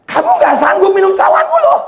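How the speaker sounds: high, loud stern warning; forceful high-pitched admonition; Jesus warning loudly. Acted. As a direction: cry it out as a rebuke. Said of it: "Tuhan ngomong".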